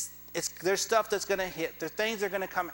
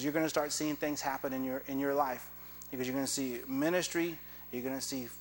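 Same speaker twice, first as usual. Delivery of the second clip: lower, gently voiced prophecy; understated prophecy; 5 semitones lower, 5 dB quieter than usual. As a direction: retell a prophetess's words, low and restrained. Retelling the prophetess's solemn prophecy.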